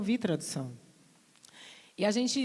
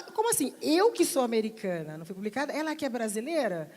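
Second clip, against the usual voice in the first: mock indignant disbelief; 3 semitones higher than usual. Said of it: "pra você ver o incômodo dela".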